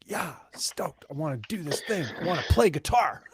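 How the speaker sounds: put-on stoked voice, breaking into laughter after; mock stoked. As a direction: play an eager, fired-up musician. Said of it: "inspired and creative".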